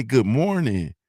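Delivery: easy Southern-style hello; simple, sincere good-morning in a natural pitch; friendly greeting. Shown as a demonstration. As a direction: say it as an everyday neighborly greeting. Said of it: "Like, we say".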